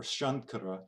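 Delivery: Shankara with a tongue-tip n before the k; wrong nasal. Shown as a demonstration. Teacher showing another wrong form, plain n in Shankara. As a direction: say Shankara as SHAN-kara. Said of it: "and not Shamkara or Shankara".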